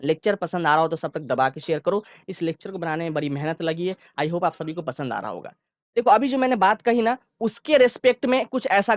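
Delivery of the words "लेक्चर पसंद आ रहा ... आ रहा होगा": same even speed all through, no rushing; steady even pace. Shown as a demonstration. Teacher demos one even speaking pace to students. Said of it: "देखो मैं बोल रहा हूँ, सुनो अच्छे से".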